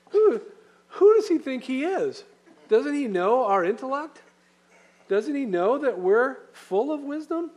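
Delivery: high, loud, offended protest; indignant outrage. Retold or imitated. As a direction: play the insulted proud Greek, scandalised. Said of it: "they may be reading that going".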